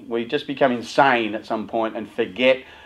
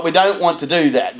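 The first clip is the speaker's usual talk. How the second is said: normal talking voice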